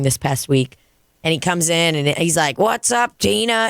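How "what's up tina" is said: higher-pitched cheery hello, retold; friendly greeting. Old bar regular greeting his bartender, friendly greeting.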